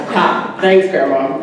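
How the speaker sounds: dry mock laugh, then sarcastic thanks; sarcastic, pitch dropping at the end; sarcastic reply. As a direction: thank her with obvious sarcasm. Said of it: "I sarcastically replied".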